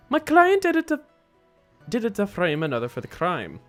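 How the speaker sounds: high starts falling away, put-on accent; accented hitman character. Killer explains his client's guilt, accented character voice. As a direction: declare it as a formal accented killer.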